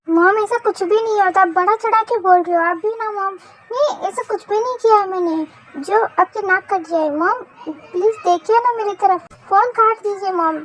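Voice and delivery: pleading protest. Acted. Daughter begging mom to end the phone call, pleading.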